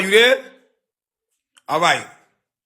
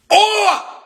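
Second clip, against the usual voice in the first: surprised oh; 13 semitones higher, 4 dB louder than usual. Real, not acted. Sudden outburst mid-story.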